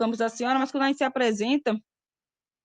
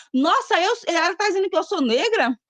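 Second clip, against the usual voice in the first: retold startled question, higher; a mock gasp of disbelief; an applicant shocked at being called Black; imitating surprise; 5 semitones higher than usual. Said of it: "Elas ficam surpresas".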